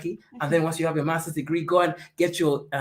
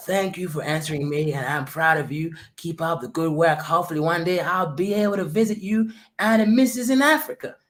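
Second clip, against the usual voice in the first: put-on old gentleman's voice. Reading a viewer's Super Chat aloud, in an old white man voice. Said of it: "I'm gonna try an old white man voice".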